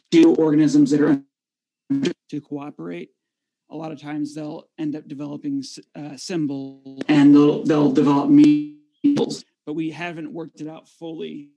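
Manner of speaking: choppy dropping connection audio; audio cutting out. Real, not acted. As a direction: voice breaking up on a bad line. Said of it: "My audio cutting out here".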